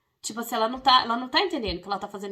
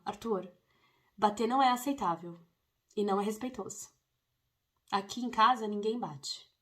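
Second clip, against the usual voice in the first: firm and gentle. Shown as a demonstration. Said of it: "de forma gentil, mas firme".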